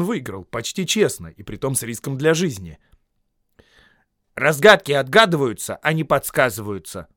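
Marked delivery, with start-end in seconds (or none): 4.3-7.1 louder firm retort. Acted. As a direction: object firmly. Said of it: "возразил он".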